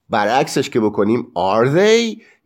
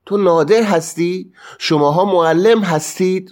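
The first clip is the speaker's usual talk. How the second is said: "هستی" and "هستید" held up high as questions; questioning tune; 6 semitones higher than usual. Shown as a demonstration. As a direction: ask it, keeping "هستی" and "هستید" lifted. (لحن سوالی «هستی؟» و «هستید؟»)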